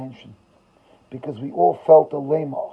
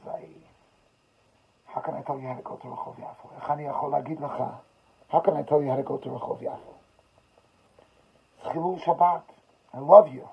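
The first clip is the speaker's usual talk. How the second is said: hushed, halting, mildly tearful; understated imitation of a broken man pleading; softly, as if struggling to talk; retold breakdown; 3 dB quieter than usual. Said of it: "just breaks down and could barely talk".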